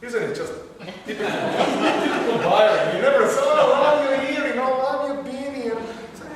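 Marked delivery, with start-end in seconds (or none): 3.4-5.7 quick, higher-pitched admirer; hammed-up fast, high compliment; mock gushing. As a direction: gush rapidly in a raised voice. Acts admirers gushing over his look.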